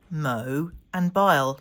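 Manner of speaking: "mo" and "bile" said slowly as two separate beats; syllables split apart. Shown as a demonstration. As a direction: break "mobile" into "mo" and "bile", slow and clear. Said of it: "Mobile has two syllables".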